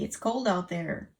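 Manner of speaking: slow, loud scolding to the cat; slow warning. Real, not acted. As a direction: drag out the warning.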